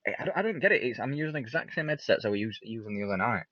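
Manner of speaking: muffled headset sound, far off; as if talking through a wall. Real, not acted. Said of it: "muffled, like, far away".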